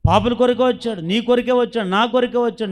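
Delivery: loud, with కొరకే punched each time; emphatic proclaiming. Acted. Preacher answering the weeping woman, loud and emphatic. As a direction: hammer కొరకే on every line.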